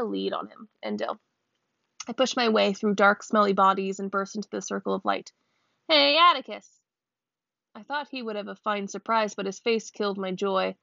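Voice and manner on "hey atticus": higher, eager shout to her father; a child's glad cry across the crowd; excited call. Acted. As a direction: burst in calling out happily. Scout bursts in calling father.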